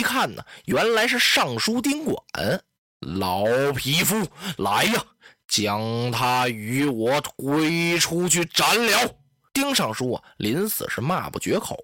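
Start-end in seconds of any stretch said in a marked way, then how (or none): 3.0-9.2 slow, heavy order to execute; furious tyrant. Acted. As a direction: draw out the contempt, then command. Dong Zhuo orders the execution.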